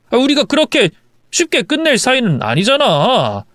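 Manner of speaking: lightly voiced husband coaxing his wife; smooth it over, wheedling a little; placating husband. Husband asking wife to talk it out, placating.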